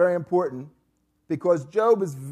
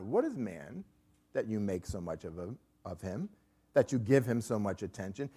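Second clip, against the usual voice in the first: sarcastic. Acted. Job questioning God in chapter seven, mildly sarcastic. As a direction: read it as pointed, understated sarcasm. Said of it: "he becomes very sarcastic toward God".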